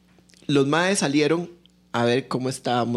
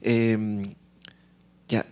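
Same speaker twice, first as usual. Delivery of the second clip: mock Colombian accent; 3 semitones higher than usual. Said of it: "que la persona que le dice eso diga".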